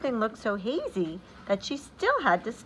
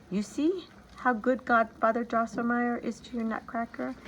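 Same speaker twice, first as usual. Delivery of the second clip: smiling mother; 4 semitones higher than usual. Acted. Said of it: "said with a smile".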